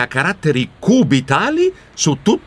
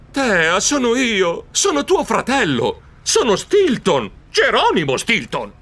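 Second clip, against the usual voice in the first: sighing; 7 semitones higher than usual. Acted. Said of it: "Io sospirai".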